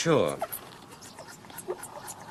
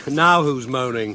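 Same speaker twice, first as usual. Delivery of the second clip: laughing tease; 4 dB louder, slower than usual. Acted. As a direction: chuckle into a slow teasing jab. Teasing after she gets caught.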